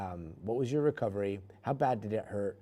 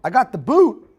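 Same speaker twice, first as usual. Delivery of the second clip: "boot" sung out high and much louder on a rise; big reveal; 18 dB louder than usual. Acted. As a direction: announce it like a punchline, much louder. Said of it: "Ready for it?".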